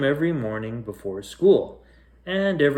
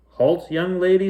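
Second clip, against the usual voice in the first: firm mother; 6 semitones higher, 4 dB louder than usual. Acted. Mother stops daughter firmly.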